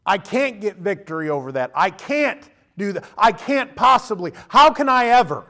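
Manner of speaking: building despair. Retold or imitated. Believer despairing over sin.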